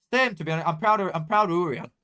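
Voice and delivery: loud, high and proud; proud outburst. Real, not acted. Fan praising the club owner, loud and proud. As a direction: burst out with pride.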